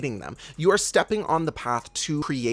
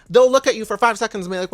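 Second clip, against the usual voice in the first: heated; 7 semitones higher, 8 dB louder than usual. Real, not acted.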